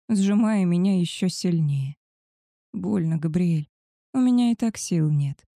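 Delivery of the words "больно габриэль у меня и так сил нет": usual speaking voice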